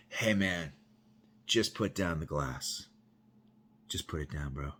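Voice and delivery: low, soft, measured plea; calm coaxing. Retold or imitated. Big cop coaxing an inmate to disarm, calm. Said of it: "starts telling this dude".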